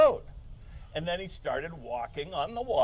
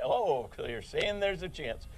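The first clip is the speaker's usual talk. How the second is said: movie quote. Retold or imitated. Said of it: "When he said".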